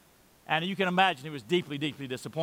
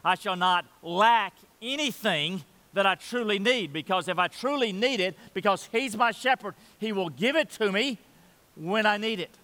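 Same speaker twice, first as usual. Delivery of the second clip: earnest paraphrase; 3 semitones higher than usual. Retold or imitated. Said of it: "he means".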